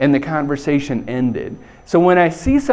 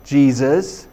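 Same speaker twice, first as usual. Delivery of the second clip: drawn-out, higher, knowing nudge; wink-wink hinting; 4 semitones higher, much slower than usual. Acted. Mom hinting to her son at the wedding, wink-wink. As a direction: stretch it out as a loaded hint. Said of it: "but kinda wink, wink".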